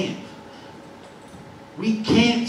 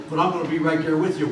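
God speaking; 4 semitones lower, 4 dB quieter, much faster than usual. Acted. Preacher voicing God, tender.

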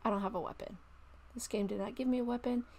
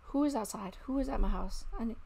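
alarmed; 5 dB louder than usual. Real, not acted. Frightened by intruder.

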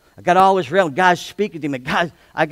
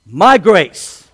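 emphatic; 10 dB louder than usual. Acted.

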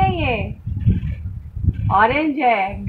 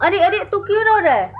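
concerned cooing; 6 semitones higher than usual. Real, not acted. Mother asks the crying little one what's wrong, concerned cooing. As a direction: coo with concern, pitched up.

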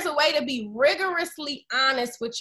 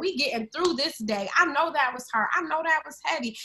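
a hint of soft, gentle inner parent, softer; loving parent voice; 4 dB quieter than usual. Woman voicing her inner loving parent, gentle and softer. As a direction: reassure yourself like a loving parent would. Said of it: "I'm cultivating this voice that's like".

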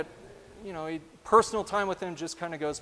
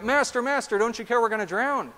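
cry out; 4 semitones higher than usual. Retold or imitated. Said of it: "they cry out".

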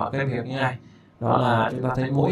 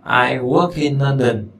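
slow, careful listen-and-repeat; slow model repeat; 6 dB louder, slower than usual. Shown as a demonstration. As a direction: say it slowly for learners to copy. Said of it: "Đó".

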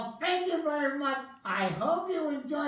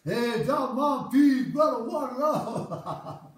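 loud laid-back Rasta greeting; Rasta Man; 2 semitones lower, 4 dB louder, slower than usual. Acted. Rasta Man greets the crowd, loud and loose. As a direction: boom out a Rasta man's hello. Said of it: "Okay, hold on".

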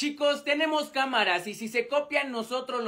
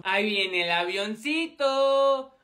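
put-on slow sing-song baby-feeding voice; 3 semitones lower, slower than usual. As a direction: coax it in like feeding a toddler. Playful "here comes the plane" feeding.

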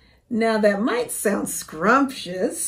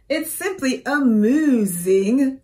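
cheerful cow voice; 3 semitones higher, 6 dB louder than usual. A narrator's reading. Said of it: "she cheered".

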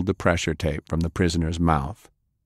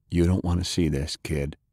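softer, gentle warning; gently; 3 dB quieter than usual. Acted. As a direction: ease the kid away, quietly. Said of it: "he said gently".

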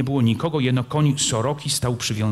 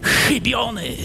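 high, raised cry; shout of a miss; 11 semitones higher, slower than usual. Acted. Soroka shouts that his shot missed. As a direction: call out the missed shot in frustration. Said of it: "krzyknął".

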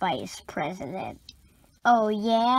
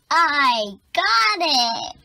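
excited; 5 semitones higher, 7 dB louder, much slower than usual. Acted. Kid gets a sudden idea.

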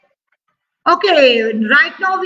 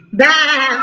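sheep bleat; 5 semitones lower than usual. Shown as a demonstration. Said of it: "Tell me the sound of the sheep".

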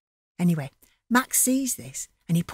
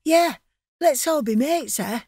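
higher, innocent and keen; eager Max; 6 semitones higher than usual. Acted. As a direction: accept gladly, trusting.

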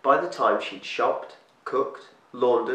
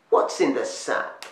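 higher, slow, breathy witch rasp; a crone drawing out the question with menace; old witch demanding; 5 semitones higher, 3 dB louder than usual. A narrator's reading. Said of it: "A twisted old woman".

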